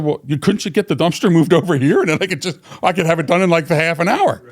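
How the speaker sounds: high, hopeful bargaining; pleading suggestion. Retold or imitated. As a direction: talk the boss into moving it. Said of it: "I said".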